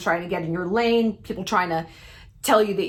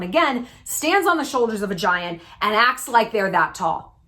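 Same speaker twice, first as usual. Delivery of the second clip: imagined rebuke; 3 semitones higher than usual. Retold or imitated. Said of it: "all I hear is".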